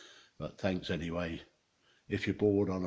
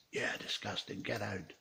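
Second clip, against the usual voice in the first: whispered; 5 dB quieter than usual. Acted. Barman throwing them out, whispered.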